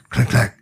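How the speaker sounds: sharp mouth-made shutter noise; imitated camera clack. Shown as a demonstration. Showing how this loud camera sounds, imitated clack. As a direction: make a hard, quick camera clack. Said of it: "it makes a loud clack noise".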